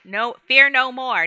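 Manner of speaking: each word weighted, "fear" leaned on; slow stress on fear. Shown as a demonstration. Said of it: "what I have put out".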